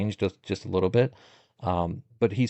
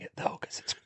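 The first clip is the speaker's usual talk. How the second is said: whisper; 10 dB quieter than usual. Real, not acted. Conspiratorial aside about secret recording.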